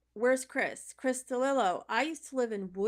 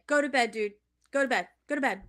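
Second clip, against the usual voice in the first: firm urging; 7 dB louder, much faster than usual. Real, not acted. Telling friend to sleep.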